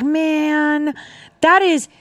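high, ironic wonder; mock amazement. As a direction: sell it as fake awe. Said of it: "And I was just like".

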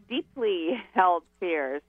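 slow, weighted emphasis on "deeply"; stress on deeply. Real, not acted. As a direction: underline "deeply" by drawing it out slowly. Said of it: "and I will underline".

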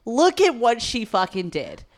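emphatic, drawn-out mock admiration; imagined teacher's praise. Teacher imagined showing off star student to class, hammed-up emphatic praise. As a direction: hold her up as the shining example, hammed up. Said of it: "I was gonna be the example".

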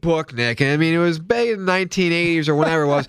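put-on high, bouncy kids show host voice; lightly playing a cheery kids host. Mock review of a children's book.

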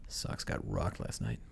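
low, quiet, bummed Boston accent; glum Boston accent. Shown as a demonstration. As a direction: mutter it like a sad Boston fan at the bar. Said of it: "So it's more of a".

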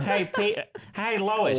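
lightly voiced cartoon dad; Peter Griffin. Calling to his cartoon wife, light impression. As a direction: call out as a cartoon dad, half laughing. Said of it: "do your best Peter Griffin".

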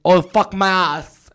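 overacted porn moan; mock porn moan. Imitating porn actress.

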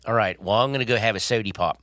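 casual put-on Baltimore accent. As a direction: sign off like a Baltimore local. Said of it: "honey, you do Baltimore".

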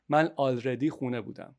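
already said with a Persian accent, al-re-DI. Shown as a demonstration. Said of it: "I pronounce it with a Persian accent".

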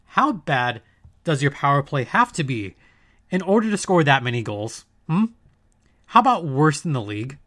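forced calm. Real, not acted. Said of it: "I'm gonna remain calm".

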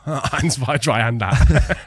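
slow, giggling German count; laughing. Shown as a demonstration. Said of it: "That's not German".

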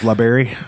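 LaBerry said as la-BERRY; LaBerry with a leading "luh"; mock pronunciation. Shown as a demonstration. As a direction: say LaBerry to rhyme its end with berry. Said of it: "I think it's pronounced".

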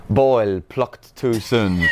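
slow, grave reading of a damning review; critic's headline. Retold or imitated. Imagined critic reading his review aloud, slow and grave. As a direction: intone it like a harsh critic's verdict. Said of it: "So I had this thing of him reading".

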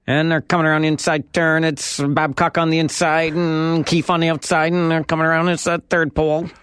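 mock horse race announcer patter; race caller. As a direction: call it like a race track announcer. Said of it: "the patter of a horse race announcer".

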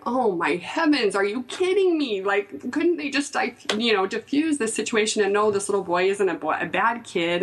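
mock outrage at the school; a touch of exasperated disbelief; dismayed disbelief. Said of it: "I'm just sitting there going".

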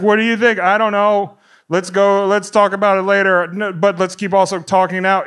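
mock cinema chatter, unhushed; regular talking voice. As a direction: chat away at full volume as if at home. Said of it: "just talking, just regular".

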